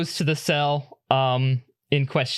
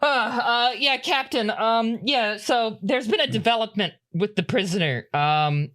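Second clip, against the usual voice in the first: high, hurried, winded voice of a crew member; a lot higher and a bit breathless, catching up with the captain; breathless Wendy; 4 semitones higher than usual. Acted. Wendy reporting the prisoner's news to the captain, high and winded. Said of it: "who's looking a bit out of breath".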